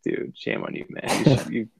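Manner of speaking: hushed disapproving whisper; whispered scolding. Retold or imitated. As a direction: whisper the reproach under your breath. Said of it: "one where you're like".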